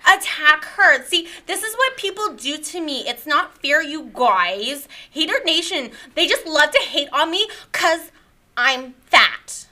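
lightly voiced whiny victim, a hint of a valley girl; self-pitying influencer character. A self-pitying podcast guest complains to the host, lightly whiny. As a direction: mope about the haters, a little put-upon. Plays the character Lyre Lynn.

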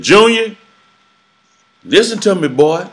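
put-on high, loud Creole-accented call; New Orleans twang. Old family friend phones to warn him, New Orleans twang. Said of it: "with that, with that New Orleans twang accent".

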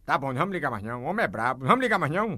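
low, soft and quick; hushed, hurried giving in; feigned backing down. Pretend. Host feigns giving up calling.

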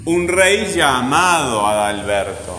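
slow, leaning on "rey", MA in "llamado", BER in "Adalberto"; stressed syllables. Shown as a demonstration. Teacher dictating for syllable marking, "rey" and "llamado" stressed slowly. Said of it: "¿Cuál suena fuerte?".

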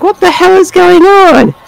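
high, baffled outburst. Retold or imitated. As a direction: sound utterly thrown. Own baffled reaction retold.

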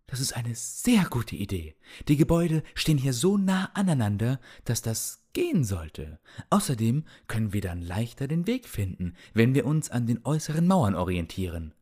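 lightly voiced old healer, hopeful; old man's voice with some hope.

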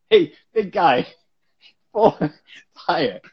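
loud, high bossy shout; shouted orders. Retold or imitated. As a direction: bark orders across the table. Jackie ordering crew, tarp.

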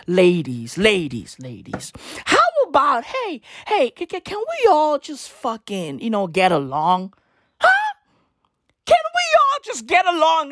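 a hammed-up plea for calm; mock peacemaker. Calling the feuding ladies to make peace, pleading.

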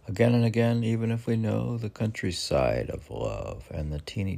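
dramatic poem reading, big swells and hushed ends; poetry reading. Acted. Reading a poem aloud on the podcast, dramatic recital. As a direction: read the poem with rising passion.

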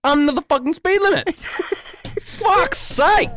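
boil over at the cyclists; furious rant peak. Real, not acted. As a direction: rant climbing up to a fed-up shout. Rant peaks, high and loud.

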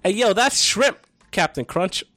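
high, loud "Captain Crunch" call-out; hyped commenter. Retold or imitated. Commenter mocking Cinnamon Toast Crunch, high and loud. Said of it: "let me start that back up".

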